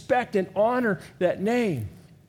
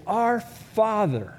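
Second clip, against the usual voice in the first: slow, tender "Our Father"; 3 semitones higher, much slower than usual. Shown as a demonstration. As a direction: pray "Our Father" unhurried, like a child.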